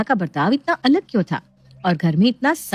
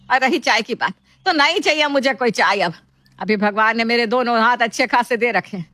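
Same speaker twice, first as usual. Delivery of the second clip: high opening, then grumbling; angry scolding; 4 semitones higher than usual. Acted. Mother-in-law stopping the two women's fight, angry. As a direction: break up the quarrel with exasperation. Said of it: "Sumitra को बहुत गुस्सा आता है".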